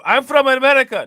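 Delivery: high, loud, put-on foreign accent saying "America" as "Amedica"; mock foreign accent. Mocking the migrant's claim, loud put-on foreign accent. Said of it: "No, you're not from America".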